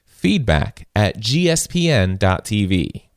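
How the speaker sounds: slow, drawn-out announcer read. Shown as a demonstration. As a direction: call it out like a fighting game announcer. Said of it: "your announcer voice".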